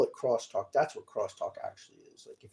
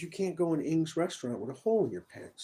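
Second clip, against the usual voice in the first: raised, scolding lecture; scolding old man; 5 semitones higher than usual. Retold or imitated. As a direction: tell him off like a stern elder. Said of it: "And he says".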